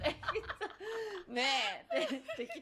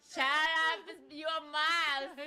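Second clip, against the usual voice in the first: intimidating; 5 semitones higher, much slower than usual. Retold or imitated. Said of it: "it sounds so intimidating".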